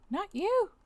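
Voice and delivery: sharp high yell at the screen; exasperated shout. Real, not acted. Player scolding a stubborn puzzle tool, high exasperated yell. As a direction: snap at the program to stop.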